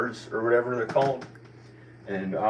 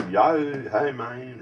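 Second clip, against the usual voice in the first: put-on Californian surfer accent, a touch higher; California accent; 4 semitones higher, 4 dB louder, slower than usual. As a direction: drop into a light California accent. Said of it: "thought I was from California".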